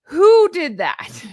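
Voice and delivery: slow whisper of disbelief; incredulous whisper. Real, not acted. Whispering disbelief at the award claim. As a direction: hush it in disbelief.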